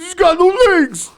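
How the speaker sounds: high, breathy whispered cry; whispered wail. Retold or imitated. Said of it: "I was like".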